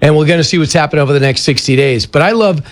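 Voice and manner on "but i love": sarcastic relish, pitched up; dry sarcastic praise. Real, not acted. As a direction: say it as if you adore it, meaning the opposite. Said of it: "and I'm being sarcastic".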